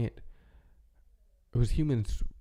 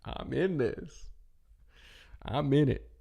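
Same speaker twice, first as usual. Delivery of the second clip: dreamy and enthralled; 3 semitones higher, slower than usual. Retold or imitated. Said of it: "you're just like".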